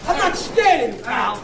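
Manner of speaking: tough-guy sneer; false bravado. Real, not acted. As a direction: posture like a hard man. Caller posturing in a fight.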